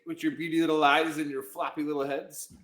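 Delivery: high mock cartoon voice; South Park quote. Mocking the Canadian guest in a light South Park voice. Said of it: "that's from South Park".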